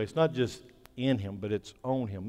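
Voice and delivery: "in" set against a stressed "on"; contrastive stress. Shown as a demonstration. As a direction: lean on "in", then correct it with a weighted "on". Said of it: "I'm gonna say it this way".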